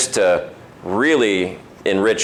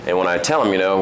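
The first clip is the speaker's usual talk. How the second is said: ordinary delivery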